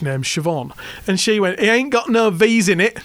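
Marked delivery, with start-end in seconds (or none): 1.6-3.0 indignant Hull caller, louder; broad Hull accent, laughing; chavvy Hull accent. Retold or imitated. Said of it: "really chavvy Hull accent".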